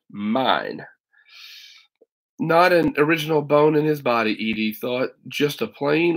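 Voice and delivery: put-on steady read-aloud narration for kids; teacher reading a novel to students; story narration. A narrator's reading. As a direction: tell the story to a class.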